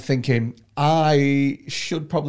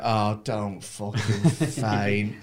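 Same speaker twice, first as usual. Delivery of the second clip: slow inner plea; 4 semitones lower, much slower than usual. Retold or imitated. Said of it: "And I'm like".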